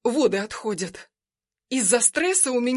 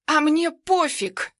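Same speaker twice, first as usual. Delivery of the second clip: slow, high, mocking sneer; smirking defiance; 6 semitones higher, 4 dB louder, slower than usual. Armed rival taunts the husband, slow and smirking. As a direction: toss it off with a smirk. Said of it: "ухмыляется эта тварь".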